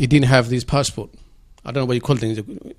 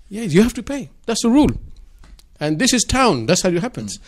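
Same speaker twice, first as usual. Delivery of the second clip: higher, confident conman; fraudster voice; 7 semitones higher than usual. Retold or imitated. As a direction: sell the rule like a trickster.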